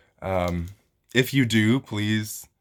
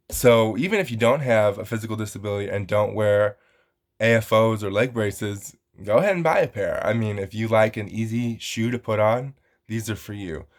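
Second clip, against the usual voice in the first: infomercial voice. Real, not acted. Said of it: "I sound like an infomercial".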